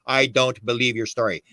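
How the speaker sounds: "I don't believe your story" drawn out slowly; really slow. Shown as a demonstration. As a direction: say it slowly, each word set apart. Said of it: "Say that really slow".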